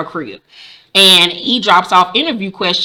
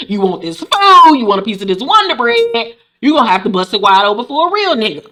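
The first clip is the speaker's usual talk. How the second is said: mock sleazy man. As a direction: lean into the sleaze. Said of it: "And he was like".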